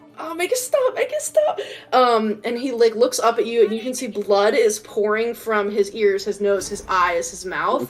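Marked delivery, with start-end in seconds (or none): 0.2-1.6 very high, pleading, begging cry. Voicing a rabbit-folk creature in pain under a purring spell, begging.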